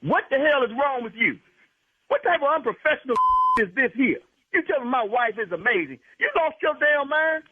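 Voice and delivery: furious scolding of the doctor; indignant rant. Real, not acted. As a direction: tear into him for disrespecting your wife. Husband outraged at prank doctor.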